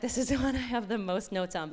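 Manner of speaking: said through a light laugh; amused. Real, not acted. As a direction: laugh a little as you admit it. Amused admission about her notes.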